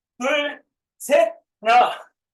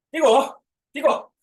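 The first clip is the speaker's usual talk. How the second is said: normal talking voice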